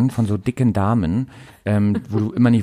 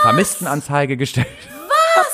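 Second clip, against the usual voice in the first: slow, laughing mock protest; laughing mock outrage; 3 semitones higher, slower than usual. Real, not acted. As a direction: laugh it out in disbelief. Mock reproach of parents, laughing.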